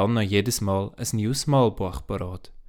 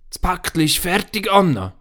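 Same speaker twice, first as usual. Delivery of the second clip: a higher, gentle granny voice; grandmother speaking; 8 semitones higher than usual. Acted. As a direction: voice the old grandmother announcing it. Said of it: "sagt das Grossi plötzlich".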